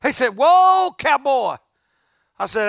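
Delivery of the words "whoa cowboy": 1 friend's jolly greeting. Retold or imitated. Friend Grady's call.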